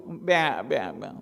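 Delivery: tiny, soft, crying sheep bleat; whimpering bleat. Acted. Cub sobbing to the big lion, soft and scared. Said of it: "રડવા માંડી ગયો".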